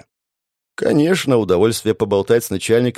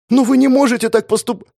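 high, loud, cut-off outburst; flaring protest; 14 semitones higher, 5 dB louder than usual. Acted. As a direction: burst out at the boss before he cuts you off. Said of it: "уже было вспылила Вайолет".

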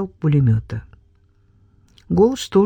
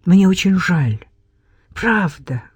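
heartfelt. Acted. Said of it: "с чувством проговорила".

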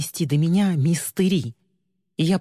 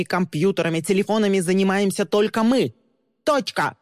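higher, bossy orders; commanding shout; 4 semitones higher than usual. Acted. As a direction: bark orders at the agents. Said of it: "кричать, громко, повелительно, угрожающе".

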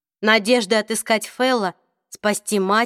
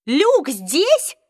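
higher, sudden alarm; frightened question; 7 semitones higher, 4 dB louder than usual. Acted. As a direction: ask it scared. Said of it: "испуганно спросила Изабель".

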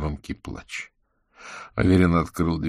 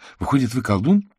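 surprised; 6 semitones higher, 4 dB louder than usual. A narrator's reading. Girl guesses he's a wizard.

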